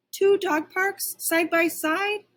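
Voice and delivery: high, slow astonishment; dog stunned by two parks; amazed wonder. A narrator's reading. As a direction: marvel slowly at the sight.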